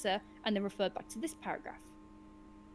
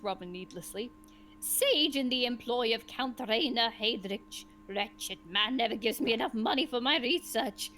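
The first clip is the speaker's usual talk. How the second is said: grumpy sage; 4 dB louder than usual. Acted. GM voicing grumpy old sage.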